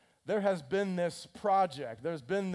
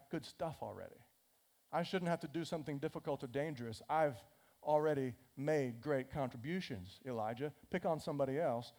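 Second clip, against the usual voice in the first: softer, lower sulking plea; sulky excuse; 3 semitones lower, 6 dB quieter than usual. Retold or imitated. Obadiah begs Elijah to pick someone else, soft and sulky. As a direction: mumble out of the dangerous job.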